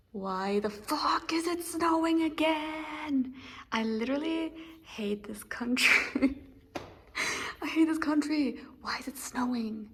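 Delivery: drawn-out, whispered complaint; hushed dismay, words stretched out; exasperated whisper. Real, not acted. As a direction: whisper your outrage at the weather. Dismayed at snow, in classroom.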